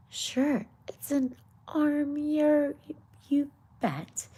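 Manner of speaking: high, loud, hammed-up Irish accent; bad Irish accent. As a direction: play the Irish gardener with a badly faked brogue. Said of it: "it was a bad accent".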